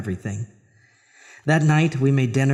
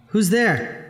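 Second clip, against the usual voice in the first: higher, startled call into the dark; frightened call; 8 semitones higher than usual. Acted. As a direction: call out, scared of what answers. Calling out to a hidden voice.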